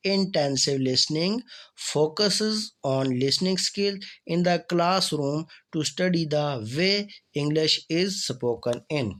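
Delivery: slow, careful reading of a definition; reading aloud. Acted. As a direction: read each word out clearly for the class. Reads English definition slowly.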